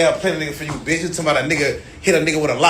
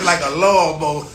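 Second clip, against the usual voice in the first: laughing through the words. Real, not acted. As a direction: chuckle while saying it. Laughing at his own joke.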